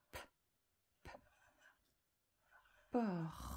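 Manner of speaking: "porte." stretched very long on R, then a separate final T; sounding out. Shown as a demonstration. Teacher sounding out the word while writing, sounding out. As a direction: draw out "porte." slowly, releasing the T late. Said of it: "Et j'entends le T".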